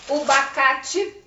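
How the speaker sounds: bacate said slowly as the adult mispronounces it; wrong word bacate. Shown as a demonstration. Teacher showing the adult's mispronunciation. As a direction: drop the first syllable and say bacate. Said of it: "os adultos que não têm leitura costumam falar".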